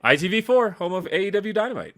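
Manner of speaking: mock channel announcer. Host chimes in with the channel's slogan, mock announcer. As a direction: pitch it up like a TV ident.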